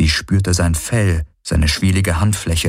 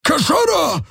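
very high alien bellow; roaring shout. A narrator's reading. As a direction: bellow the warning at her. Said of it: "brüllte er sie an".

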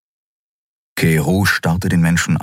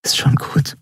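whispered; 9 semitones higher than usual. A narrator's reading. Endriel comforting the weeping Keru, whispering. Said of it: "flüsterte sie".

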